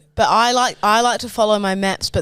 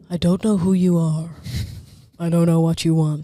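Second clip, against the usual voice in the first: deliberate, lightly voiced action-film threat; measured threat with slightly thick diction; deaf Liam Neeson; 4 semitones lower than usual. Reading the kidnapper speech, mock-menacing and deliberate. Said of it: "Sounds like a Death Liam Neeson".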